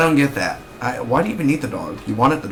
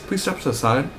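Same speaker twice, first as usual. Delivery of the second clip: security guard; 4 semitones higher than usual. Retold or imitated. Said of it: "the security guard comes up to you".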